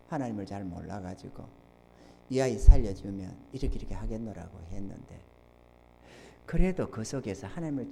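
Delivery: very soft, low solemn delivery; hushed testimony. Real, not acted. Preacher recalls surrendering to the Lord, hushed testimony. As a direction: confess it quietly, with long pauses.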